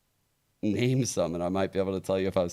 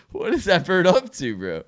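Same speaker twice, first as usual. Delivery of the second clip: excited; 11 semitones higher, 7 dB louder than usual. Real, not acted. Reacting to a swearing parrot.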